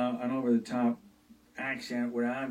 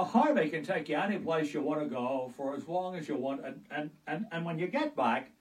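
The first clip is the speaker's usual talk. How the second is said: Jimmy Stewart in Harvey; 2 semitones higher than usual. Retold or imitated. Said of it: "like in Harvey".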